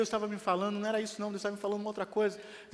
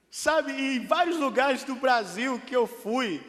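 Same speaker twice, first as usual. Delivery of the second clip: fervent preaching; 6 semitones higher, 7 dB louder than usual. Acted. Excited preaching.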